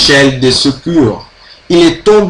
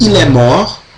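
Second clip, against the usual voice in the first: rising, question-like intonation on mort. French lesson on asking questions by intonation, rising question intonation on mort. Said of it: "a primeira maneira é fazendo com entonação".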